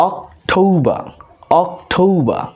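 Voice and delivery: অক্টোবর as "ok... TOU-ba". Shown as a demonstration. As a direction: say অক্টোবর with a gliding "ou" and no final r. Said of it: "ও এর উচ্চারণটা ঔ এর মতো".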